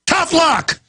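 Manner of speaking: high, scornful mock brush-off; mocking police chief. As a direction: toss it off like a smug official who doesn't care. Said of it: "It's just like".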